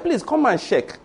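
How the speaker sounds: "check" said as "sheck", with SH for CH; mispronounced check. Retold or imitated. Retelling his slip to a hostel mate, "check" said as "sheck". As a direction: soften the CH of "check" into SH. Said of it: "I did not pronounce check properly".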